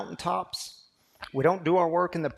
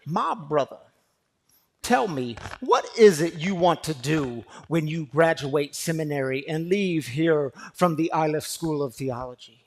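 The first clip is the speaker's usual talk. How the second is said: imitating Dr. Harding; 3 dB louder than usual. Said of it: "it was a booming voice".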